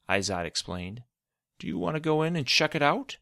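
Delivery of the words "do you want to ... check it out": inviting. Acted. Mentor inviting the boy.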